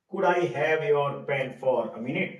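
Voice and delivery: very slow, word-by-word polite ask; polite request. Shown as a demonstration. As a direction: drill it slowly for the class. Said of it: "polite way में".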